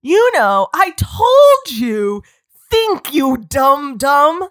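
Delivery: loud, slow, teasing; slow mocking tease; mock teasing Jacob. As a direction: drag it out slowly to a dumb dumb. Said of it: "He's like".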